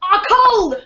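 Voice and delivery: lightly voiced English chef accent, slow start; a hint of a scornful British TV chef; Gordon Ramsay. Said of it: "That was a good Gordon Ramsay".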